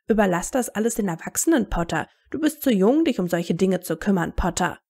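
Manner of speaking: exaggerated up-and-down mimicry; mocking imitation. Harry apes adults who called him too young, mocking. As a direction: parrot a patronising adult, swooping up then down. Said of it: "nachäffte".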